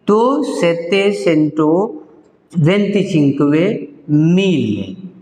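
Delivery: सेते सेंटो वेंती चिंकवे मिले said slowly in Italian; slow number demo. Shown as a demonstration. Teacher reading the full Italian number aloud slowly. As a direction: read the whole number slowly. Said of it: "बात समझ में आ गया?".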